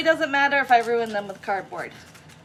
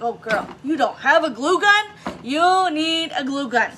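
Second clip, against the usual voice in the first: sassy; 3 semitones higher, 4 dB louder than usual. Retold or imitated. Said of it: "I'm like".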